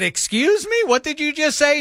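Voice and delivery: retold indignant comeback; indignant retort. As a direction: act offended at her. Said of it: "And I said".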